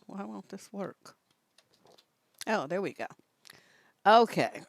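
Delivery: ordinary talk, nothing marked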